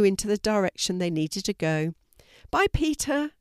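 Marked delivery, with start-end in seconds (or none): 2.5-3.3 high, cheerful goodbye. A narrator's reading. Girl waving goodbye to the postman, cheerful and high. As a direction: sing out a bright bye. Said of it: "she said cheerfully".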